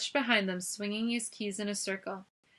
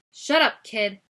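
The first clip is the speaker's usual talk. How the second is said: angry shout; 10 dB louder than usual. A narrator's reading. Angry guard snapping at Noah.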